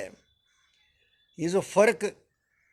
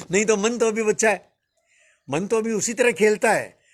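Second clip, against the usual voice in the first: laughing; 4 semitones higher than usual. Real, not acted. Teacher laughing at his own age with the audience, amused. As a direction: laugh it off lightly.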